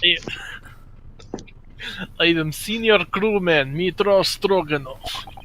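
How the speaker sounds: put-on slow, heavy Russian accent; lightly voiced Russian sailor. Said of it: "do Russian accent".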